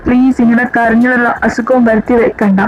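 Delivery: gentle comforting. Acted. Comforting a crying friend.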